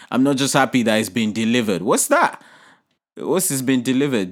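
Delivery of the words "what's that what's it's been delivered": pitched-up mock shock; mock surprise. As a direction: leap up in mock disbelief. Mocking reaction to delivery.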